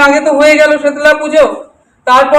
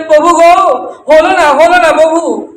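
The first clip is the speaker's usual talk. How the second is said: higher-pitched retold lament, voice lifted; mildly acted pleading cry to the Lord; tearful plea; 3 semitones higher than usual. Murari weeping to his Lord at the riverbank, mock tearful plea. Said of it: "কাঁদতে কাঁদতে প্রভুকে বললেন".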